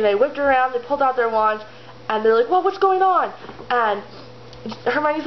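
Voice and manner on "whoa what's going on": high-pitched, acted alarm; startled. Boys whipping round at the girls' screaming, startled. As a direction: blurt it as if caught off guard.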